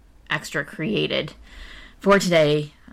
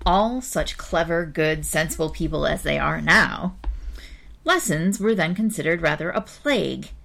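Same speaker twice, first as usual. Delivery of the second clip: measured, expressive storybook reading; story narration. A narrator's reading. Reader telling an old-fashioned tale to listeners, story narration. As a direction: read it out like a children's tale. Reads a children's story aloud.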